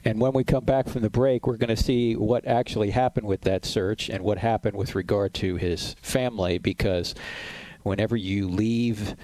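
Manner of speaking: upbeat host plugging the book over music; radio break promo. Acted. Radio host teasing the next segment to listeners, promo read. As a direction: sell the book before the break.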